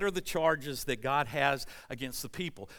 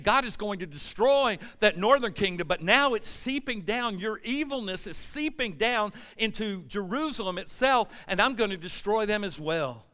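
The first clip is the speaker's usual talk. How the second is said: angry warning; 4 semitones higher, 4 dB louder than usual. Acted. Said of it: "He's upset. He's angry".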